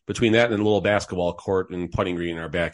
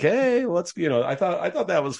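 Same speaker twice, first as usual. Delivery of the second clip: imitated neighbor's yell; 10 semitones higher than usual. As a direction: call out like a neighbor through a window. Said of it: "just yelling like".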